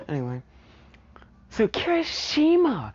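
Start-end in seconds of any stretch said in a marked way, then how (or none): 1.5-2.9 excited squeal. Real, not acted. Fangirl squeal over a character.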